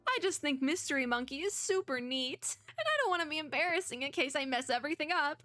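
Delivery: a hint of an anxious fan; lightly voiced insecure Mo. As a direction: lightly play a self-conscious admirer, speeding up. Plays insecure Mo.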